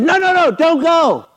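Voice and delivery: high, pleading no no no; high-pitched mock plea; pleading Peter. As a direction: beg him not to go. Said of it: "Peter says".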